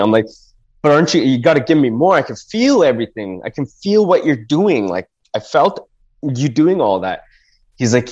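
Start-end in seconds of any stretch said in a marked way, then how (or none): 0.8-7.2 rushing the words out like you're pleading in a panic; panicked plea. Retold or imitated. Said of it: "you know, I was panicking".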